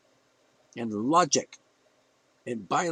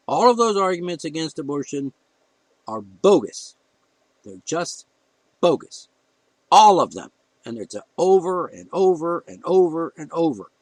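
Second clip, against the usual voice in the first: loud, heated rant building up; real anger; 6 dB louder than usual. Real, not acted. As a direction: hammer each word out in real frustration. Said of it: "I'm getting emotional".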